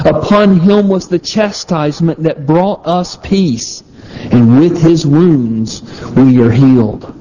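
measured, deliberate reading aloud with lifted key words; slow scripture reading. Real, not acted. Preacher reads Isaiah fifty-three to listeners, slow scripture reading. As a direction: read the verses slowly and solemnly. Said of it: "I'll read it slowly".

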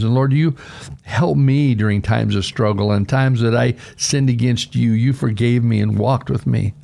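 earnest pastoral prayer voice; closing prayer. Real, not acted. Pastor closes the service praying for his listeners, earnest prayer. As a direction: pray sincerely over the listeners.

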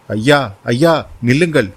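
urgent cry of stop, mild shout. Acted. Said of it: "கூச்சலிட்டான்".

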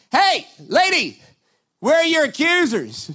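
a hint of a teasing Jesus; Jesus gently asks the woman where her accusers are; lightly voiced Jesus.

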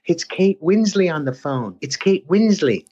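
high, slow call from another room; mom yelling. Retold or imitated. Mom yelling that Kate is on the phone, high and slow. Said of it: "my mom would yell at me and go".

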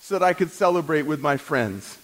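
high-pitched, aggrieved complaint; resentful older son. Acted. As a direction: whine at your father about the unfairness. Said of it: "And he's saying".

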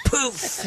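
high, airy "poof" of a bursting clod; a quick high poof sound effect; imitated poof. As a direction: mimic a small puff of an explosion. Imitating the bomb bursting on the road.

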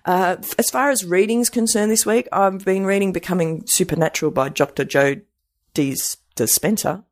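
stumbling with dentures out; without dentures. Real, not acted. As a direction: talk with teeth out. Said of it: "I really do need to put my teeth back in".

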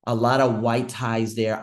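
"white" drawn out and punched; slow phrase with "white" stressed hard. Real, not acted. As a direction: lean slowly on the word "white". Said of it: "I only emphasize the word white".

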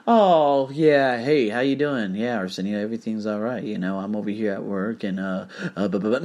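mock a sloppy, hesitant speaker; sloppy mumbled talk. Mocking how sloppy talkers ramble on the phone, lazily. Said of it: "I don't speak with that".

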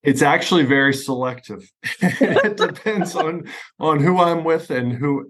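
laughing through the words, pitch up. Real, not acted. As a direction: chuckle your way into the answer. Laughing while answering about accent.

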